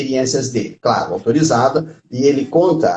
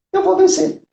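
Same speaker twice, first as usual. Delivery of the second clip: confident declaration. Real, not acted. Affirming he will win.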